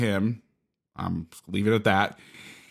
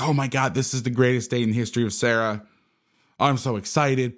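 mildly raised, quick gushing; imitating excited friend; 3 semitones higher than usual. Patrick on the phone gushing to the speaker, mock excited. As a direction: retell the friend's airport joy, lightly hammed. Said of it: "was going nuts in the airport".

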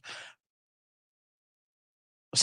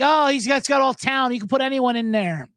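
mocking critics; 7 semitones higher than usual. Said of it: "They're like".

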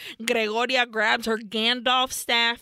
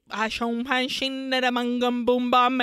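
fake devil language. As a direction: chant nonsense words like a demon. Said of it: "says some shit in fucking devil".

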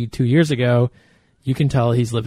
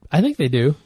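vocal fry; 2 semitones higher than usual. Real, not acted. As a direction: let the voice crackle at the bottom. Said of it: "did I just do the vocal fry?".

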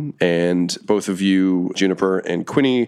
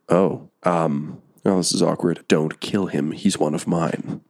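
awkward patron voice; 3 semitones lower than usual. Acted. Patron's voice in your head.

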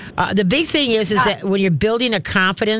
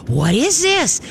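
laughing voice; much slower than usual. Shown as a demonstration. Trainer going back to tempting the dog, laughing voice. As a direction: coax playfully, stretching the words out. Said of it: "in a laughing voice go".

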